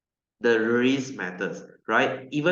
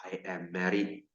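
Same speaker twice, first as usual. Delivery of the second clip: smug reply; 6 semitones lower, 8 dB quieter than usual. Retold or imitated. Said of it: "my testimony".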